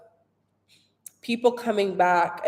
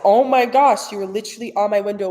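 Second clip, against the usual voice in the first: in awe; 2 semitones higher, 5 dB louder, faster than usual. Retold or imitated. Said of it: "like, in awe".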